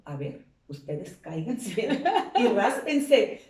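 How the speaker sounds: laughing as she dares the parents to fall; laughing challenge. Real, not acted. To the parents, daring them with a laugh. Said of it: "Yo les pregunto".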